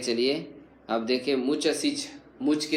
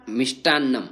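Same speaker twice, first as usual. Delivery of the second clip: teacher calling out; 8 dB louder than usual. Shown as a demonstration. Teacher calling out vocab words.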